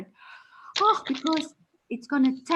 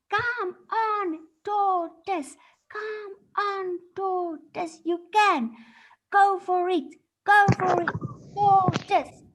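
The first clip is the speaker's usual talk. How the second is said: crowd cheering; 6 semitones higher, slower than usual. Acted. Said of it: "people started shouting".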